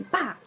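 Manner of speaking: short popped "pá" like a little gun; imitated gunshot. Patient showing viewers the biopsy device, imitated gunshot. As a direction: mimic the biopsy gun firing. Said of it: "como se fosse uma arminha".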